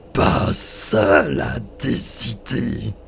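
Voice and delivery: mocking giant spirit. Spirit repeating the boy's words, slow with seul stressed falling.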